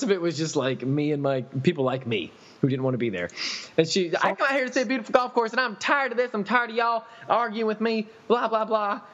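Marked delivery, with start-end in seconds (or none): 4.2-9.0 high, fast whiny imitation of her; shrill mock customer. Golfer whining at the groundskeeper, high mocking imitation. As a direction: mimic her whining complaint, high and quick.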